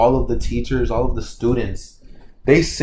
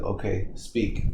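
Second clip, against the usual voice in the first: calmed down; 3 semitones lower, 6 dB quieter, slower than usual. Retold or imitated. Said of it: "Deku calms down".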